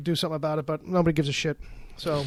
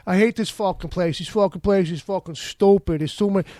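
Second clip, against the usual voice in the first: complaining Brooklyn transplant; 3 semitones higher, 4 dB louder than usual. Retold or imitated. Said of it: "So it's like".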